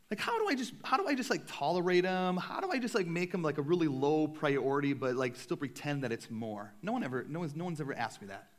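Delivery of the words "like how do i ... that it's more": mock question. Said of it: "came up to me and said".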